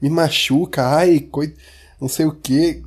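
lightly voiced mocking woman; a hint of a whiny woman, mock; man doing a woman's voice. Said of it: "eu fiquei imitando a mulher".

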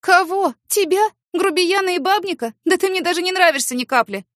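high, loud, haughty put-down; haughty scorn. Acted. Woman mocking her neighbour, haughty and loud. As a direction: look down on him like a bug. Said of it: "высокомерно хмыкнула".

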